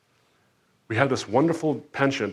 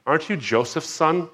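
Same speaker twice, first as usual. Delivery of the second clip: sneering insinuation; 6 semitones higher than usual. Retold or imitated. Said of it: "undercurrent of them saying".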